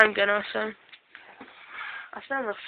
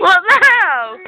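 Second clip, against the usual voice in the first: helium voice; 10 semitones higher, 14 dB louder, slower than usual. Real, not acted. Inhaling helium, high squeaky voice.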